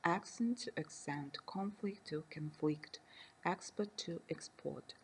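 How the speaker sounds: "accent to accent", "conflict to conflict", "export to export": stress the first syllable for the noun, then the last syllable for the verb; stress shift demo. Shown as a demonstration. Lecturer contrasting noun and verb stress for students, stress moving to the last syllable. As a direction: move the stress from the front of each word to its end. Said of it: "Nouns have the stress on the first syllable and verbs on the last syllable".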